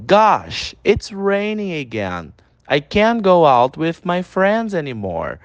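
slow, carefully spelled-out English; slow teacher's pronunciation demo; slow pronunciation model. Shown as a demonstration. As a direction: model each word slowly for students to repeat. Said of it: "repete comigo a pronúncia".

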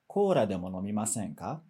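low invitation, fading through "nomimasen ka"; descending intonation. Shown as a demonstration. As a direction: let "nomimasen ka" drop away and lose force. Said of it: "perdendo um pouquinho da força".

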